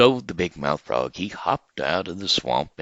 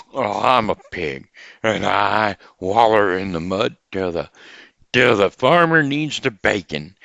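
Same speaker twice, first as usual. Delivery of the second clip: pig voice; 6 dB louder, slower than usual. Acted. Pig answers frog.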